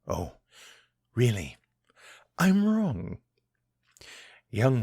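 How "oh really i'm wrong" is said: mock surprise. Villain mocks captive's claim.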